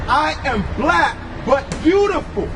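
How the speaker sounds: proclaiming shout. Real, not acted. Street preacher shouting scripture at the Catholic man. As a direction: drag out "black" and ring it out.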